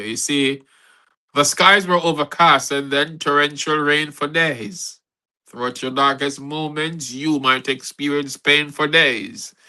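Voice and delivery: measured, earnest spoken-word poem; poem recitation. Acted. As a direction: recite it to lift the women up.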